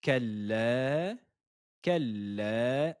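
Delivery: كلا slowly, with the lam held doubled. Shown as a demonstration. Teacher showing students the doubled lam in كلا. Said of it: "la lettre lem est dédoublée deux fois".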